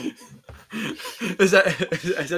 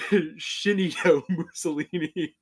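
laughing; 4 semitones higher, slower than usual. Real, not acted. Repeats joke name, slow.

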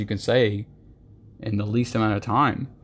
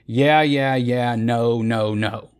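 mocking a waffler; much slower than usual. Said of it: "they say".

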